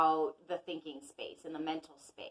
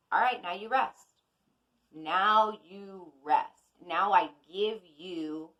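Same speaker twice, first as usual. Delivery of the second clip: Mercury speaking. Pretend. Mercury tells you to rest, slow mock command. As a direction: lightly voice the planet ordering you to rest. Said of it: "Mercury pulls back ... and says".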